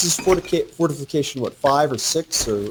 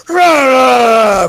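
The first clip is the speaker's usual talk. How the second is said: mock battle cry; 10 semitones higher, 10 dB louder than usual. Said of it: "I can just hear him screaming".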